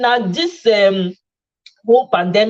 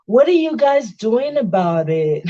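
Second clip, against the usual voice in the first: posh showing off; slower than usual. Pretend. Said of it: "I go change level".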